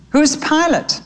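lightly voiced small sparrow, wondering; curious little brother. A narrator's reading. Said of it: "asked his brother".

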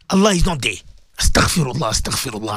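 ordinary talk, nothing marked

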